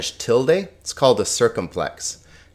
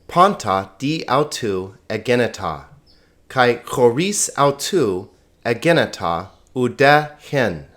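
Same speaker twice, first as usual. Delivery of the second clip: slow, measured Koine Greek recitation; smooth Greek reading; slower than usual. Shown as a demonstration. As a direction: read the Greek smoothly, phrase by phrase, for learners. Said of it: "pronounce John one, one through five this smoothly".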